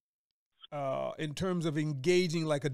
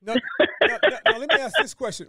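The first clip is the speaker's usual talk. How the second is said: emphatic announcing; 7 semitones higher, 6 dB louder, much faster than usual. Real, not acted. Host builds up question.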